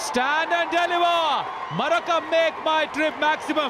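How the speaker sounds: high, drawn-out six call; excited cricket commentary. Real, not acted. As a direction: sell the six like a showman. Six called live. (ఉత్సాహంగా six వ్యాఖ్యానం)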